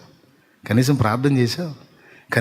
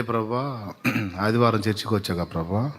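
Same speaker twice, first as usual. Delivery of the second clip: much softer, a hint of a sheepish believer; a lightly voiced believer pleading with God; meek excuse; 6 dB quieter than usual. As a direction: timidly excuse yourself to the Lord.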